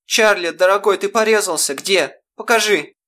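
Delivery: mother panicking at the scene; Что случилось, cried out in alarm; alarmed cry. Acted. Mother fears son is cut.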